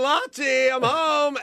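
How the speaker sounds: high, sing-song call of Lottie, I'm home; lilting high greeting through the door; grandmother calling out. Retold or imitated. Grandmother calling to her husband from the door, high and sing-song. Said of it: "She'd go like".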